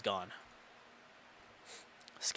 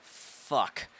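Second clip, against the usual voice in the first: whispered curse. Real, not acted. Narrator's aside under breath.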